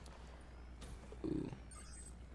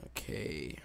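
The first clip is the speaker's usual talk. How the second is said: whispered okay; 6 semitones lower, 5 dB quieter than usual. Real, not acted. Quiet aside during play.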